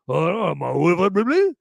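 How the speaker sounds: hammed-up Cajun accent impression. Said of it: "Trying to do his Cajun French accent".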